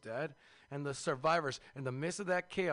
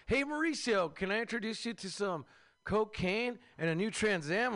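high, bright salesman come-on, louder; smooth Bernie pitch; 6 semitones higher, 4 dB louder than usual. Retold or imitated. Bernie tempting Mauricio with cocaine, high salesman voice. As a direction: slick dealer luring a tired man. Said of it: "Bernie's like".

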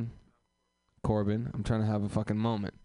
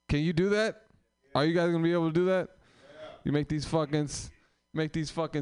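hype-up call; 6 semitones higher than usual. Real, not acted. Host hypes up the comics.

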